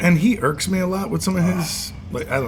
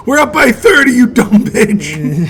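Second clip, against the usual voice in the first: raised, higher mock taunt; a hammed-up trash-talk yell, higher and louder; imitating a yell; 5 semitones higher, 4 dB louder, slower than usual. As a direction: throw the jab back like a cocky player. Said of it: "Luka's yelling at somebody in the crowd".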